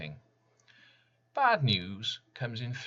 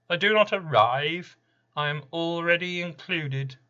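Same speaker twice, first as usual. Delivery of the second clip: Random's voice; 9 semitones higher, 9 dB louder than usual. Acted. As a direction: boom it out like a presence that haunts the room. Random speaks in his own voice.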